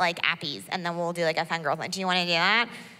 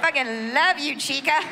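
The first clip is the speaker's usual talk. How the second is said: put-on high, loud drunk Spanish-accented gushing; 8 semitones higher, 4 dB louder than usual. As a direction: gush like a drunk girl slipping into Spanish accent. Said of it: "the more Spanish you start speaking".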